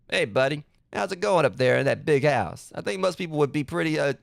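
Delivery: a light, lightly voiced cartoon dad; reading the letter as a mild Dexter's Lab dad. Gamer reads his dad's letter in a lightly voiced cartoon dad. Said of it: "voice him like, you know, dad from Dexter's Lab".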